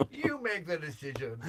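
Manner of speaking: slow words through giggles; laughing. Real, not acted. Husband laughing as he hands her the choice.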